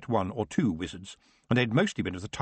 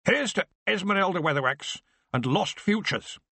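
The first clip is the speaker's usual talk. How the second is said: choked with sorrow; 9 semitones higher than usual. Acted. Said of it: "in a voice choked with sorrow".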